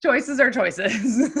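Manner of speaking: mock-tactful verdict with a laugh; deliberately measured. Real, not acted. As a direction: draw it out and tip into laughter. Continues the tactful joke, then laughs.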